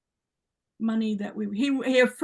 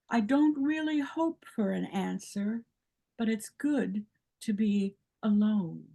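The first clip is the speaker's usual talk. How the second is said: reciting a sonnet. Acted. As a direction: read the poem gently, with pauses. Reads her sonnet aloud.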